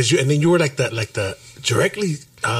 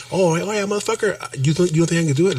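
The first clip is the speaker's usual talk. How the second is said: higher-pitched challenge to doubters; mock defiance; 5 semitones higher than usual. Friend voicing his answer to doubters, defiant. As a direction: throw down a playful dare.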